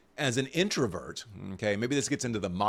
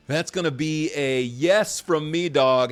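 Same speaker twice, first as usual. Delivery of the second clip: lightly voiced talent-show judge, louder; Randy Jackson; 4 semitones higher, 7 dB louder than usual. Host greets birthday judge with his catchphrase, mock judge voice. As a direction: punch out the judge's catchphrase, big on the last word. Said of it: "a judge on American Idol".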